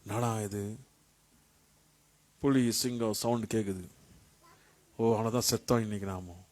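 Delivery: hushed, low acted dread; frightened lost sheep. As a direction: play a sheep's quiet, sinking fear in the dark. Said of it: "பயம் ஆயிடுச்சு". (பயந்த ஆடு போல தாழ்ந்த குரலில்)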